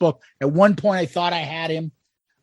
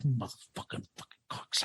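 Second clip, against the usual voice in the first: much softer, cursing under the breath; muttered curse; 8 semitones lower, 16 dB quieter, much faster than usual. Retold or imitated. Teacher cursing at students under his breath, muttered. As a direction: grumble it so nobody hears. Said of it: "And he'd be like".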